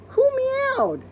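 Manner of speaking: curious maid; puzzled. Acted. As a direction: ask in wonder. Character puzzled.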